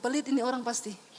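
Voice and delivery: mock retort through a laugh. Pastor mocking the stingy man, laughing. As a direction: chuckle it out as a punchline.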